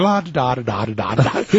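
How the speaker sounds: mock halting la da da; sounding out nonsense syllables; halting reading sounds. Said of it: "which is just like going".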